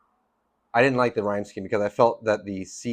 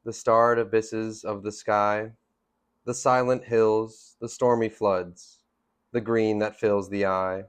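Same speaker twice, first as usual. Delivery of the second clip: slow, measured poetry reading with pauses; poem read aloud at an unhurried pace; poem recitation. Acted. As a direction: recite it deliberately, letting each phrase stand.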